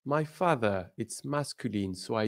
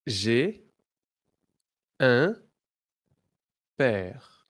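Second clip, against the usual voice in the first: louder, word by word model, un pushed loud; clear model phrase; 5 dB louder, much slower than usual. Shown as a demonstration. Teacher drilling the class, loud and separated. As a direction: say each word out clearly for repeating. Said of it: "Repeat after me".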